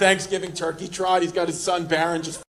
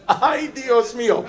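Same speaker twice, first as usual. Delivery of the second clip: slow, loud, higher "Ay, Dios mío"; mock shocked gasp; 5 semitones higher, 5 dB louder, slower than usual. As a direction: drag it out in mock horror. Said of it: "I was like".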